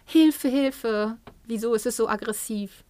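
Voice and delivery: exaggerated parental panic at a rude child; mock panicked parent. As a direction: play a parent crying for help in mock horror. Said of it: "Dann denken wir vielleicht".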